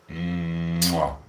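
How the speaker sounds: blown kiss sound; air kiss. Retold or imitated. Streamer to viewer, blown kiss. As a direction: blow a kiss to the screen. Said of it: "so I just went".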